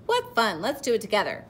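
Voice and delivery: eager, cheerful invitation; happy. A narrator's reading. Pollywog inviting the caterpillar along, happy. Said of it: "the pollywog said happily".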